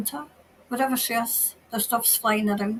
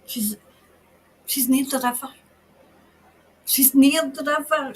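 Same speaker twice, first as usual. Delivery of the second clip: ordinary talk, nothing marked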